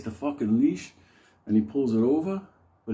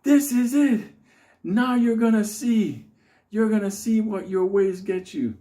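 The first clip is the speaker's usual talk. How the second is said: high, loud, slow menace; much higher and louder hammed-up threat; the Unabomber's showdown; 8 semitones higher, 4 dB louder than usual. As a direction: declare the reckoning. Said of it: "he tells the big fat black guy".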